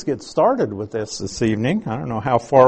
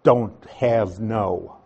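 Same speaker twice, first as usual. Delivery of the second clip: "don't have no" drawn out slowly as an example; 4 semitones lower, much slower than usual. Shown as a demonstration. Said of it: "a double negative".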